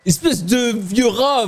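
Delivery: shouted insult. Real, not acted. Insulting teammate who stole gear.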